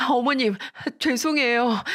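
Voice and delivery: 높은 목소리로 매달리듯 빌기; 시어머니 다리를 붙들고 울먹이며 사과; 애원하는 며느리. Retold or imitated. 며느리가 다리 붙들고 애원. (며느리가 시어머니에게 애원하며 사과)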